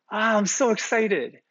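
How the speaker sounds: high, loud imitation of thrilled kids; brimming with joy. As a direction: burst out like an overjoyed child. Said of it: "brimming with joy".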